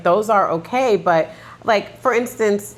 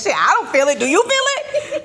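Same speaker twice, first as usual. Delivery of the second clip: mocking numb adult; 10 semitones higher than usual. Voicing emotionally numb adult.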